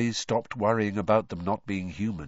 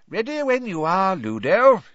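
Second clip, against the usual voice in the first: comfortable; 9 semitones higher, 8 dB louder than usual. A narrator's reading. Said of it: "said Fudge comfortably".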